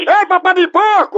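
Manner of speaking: loud teasing insult; loud taunting. Acted. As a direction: call it out to provoke. Prank caller shouts insult. (provocação gritada)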